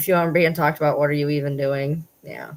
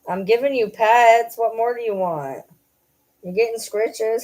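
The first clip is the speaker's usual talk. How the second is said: high pet talk; 4 semitones higher than usual. Real, not acted. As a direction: coo at the dog.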